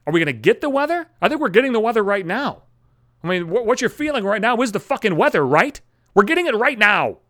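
lightly voiced rambling stranger; stranger on weather. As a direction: ramble about the weather eagerly. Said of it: "She's like".

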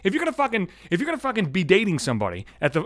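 worked up. Real, not acted. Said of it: "I'm all fucking worked up here".

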